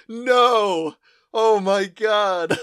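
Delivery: high, loud giggling cry of disbelief; laughing disbelief. Retold or imitated. Guy hearing his high girlfriend must go to church, laughing. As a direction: crack up at her bad luck.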